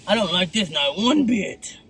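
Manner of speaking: low, disapproving Medusa drawl; slow, deep, displeased Medusa. Retold or imitated. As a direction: lightly voice a sassy, deep Medusa. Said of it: "Medusa like".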